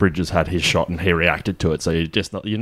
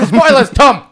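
loud laughing call; laughing shout; 7 dB louder, slower than usual. Real, not acted.

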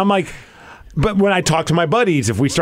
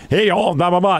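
Southern accent; 4 semitones higher than usual. Shown as a demonstration. Showing the one accent he can do, mock Southern. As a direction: throw out a token Southern accent. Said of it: "you could do a Southern accent".

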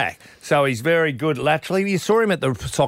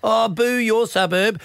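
slow, higher sing-song parody of a parochial fan; mocking suburban footy fan; 5 semitones higher than usual. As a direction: send up a one-eyed footy supporter, drawn out. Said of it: "a hundred thousand idiots at the M".

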